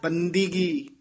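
ਬੰਦਗੀ said bandigi with a clear i on the d; ਬੰਦਗੀ ਦੱਦੇ ਦੀ ਸਿਹਾਰੀ ਨਾਲ; sihari on dadda. Shown as a demonstration. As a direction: say ਬੰਦਗੀ as ban-di-gi, not ban-da-gi. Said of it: "ਦੱਦੇ ਦੀ ਸਿਹਾਰੀ ਲਾ ਕੇ ਉਚਾਰਨ".

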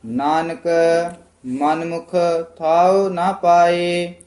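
careful recitation. Shown as a demonstration. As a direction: chant with a break after each name-word. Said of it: "ਇਹ ਪਾਠ ਧਿਆਨ ਨਾਲ ਉਚਾਰਨ ਕਰਨਾ". (ਠਹਿਰ ਕੇ ਪਾਠ)

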